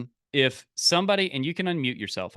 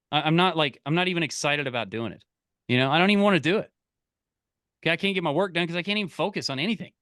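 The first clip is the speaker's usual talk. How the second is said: fast, frustrated rant about being unmotivated; fast venting friend; 3 semitones higher, faster than usual. Retold or imitated. A friend on the phone venting fast about no motivation. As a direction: rattle off complaints like a fed-up buddy. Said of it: "what they might say is".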